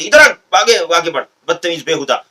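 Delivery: a hint of an imitated harsh rebuke, loud on the first words; rude scolding. Mosque official insulting the worshipper, imitated rude scolding. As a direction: order him forward with contempt. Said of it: "इस type की language".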